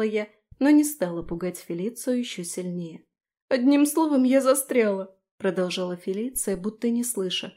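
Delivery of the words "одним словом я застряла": higher, louder pleading; tearful repeat. Acted. Felicia repeats to Daphne that she is stuck, pleading. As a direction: say it again, near tears.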